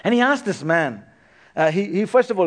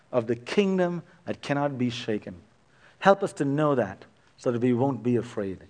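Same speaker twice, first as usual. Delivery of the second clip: pastor closing the service in gentle prayer; 2 semitones lower than usual. Acted.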